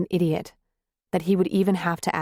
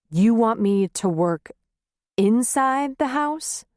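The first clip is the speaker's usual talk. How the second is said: incredulous; 4 semitones higher, slower than usual. Acted. Husband stunned, incredulous.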